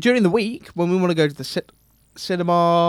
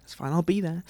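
whispering; 2 semitones lower, 10 dB quieter than usual. Retold or imitated. Retelling a quiet agreeing reply.

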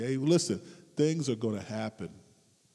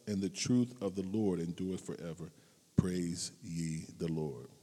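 slow, softer reverent reading; preacher reading Psalm 117; scripture reading; 3 dB quieter than usual. Acted. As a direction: read the psalm slowly and devoutly. Reads scripture.

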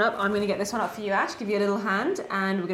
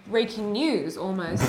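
laughing; 4 dB quieter, slower than usual. Real, not acted. Host amused by co-host's breaking news remark, laughing.

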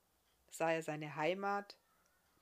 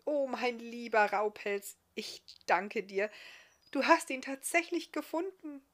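loud, raised, happy elf voice; excited gratitude, pitched up; delighted thanks; 6 semitones higher, 6 dB louder than usual. A narrator's reading. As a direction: gush thanks to a beloved dog. Overjoyed elf thanks the dog.

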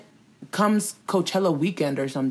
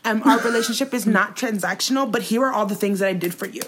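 mock whiny Tati; 6 semitones higher than usual. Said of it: "she's like".

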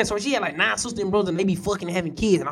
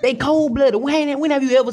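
laughing disbelief; 8 semitones higher than usual. Real, not acted.

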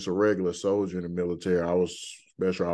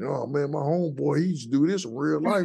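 excited retelling; 8 semitones higher than usual. Retold or imitated. Retelling a friend's excited praise.

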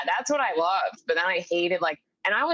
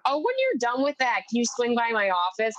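higher, lightly voiced breezy boss; mock principal; 6 semitones higher than usual. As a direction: toss it off like a brisk principal. Principal voiced in retold story.

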